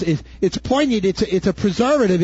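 normal talking voice

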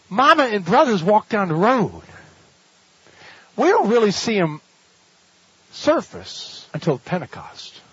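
ordinary delivery

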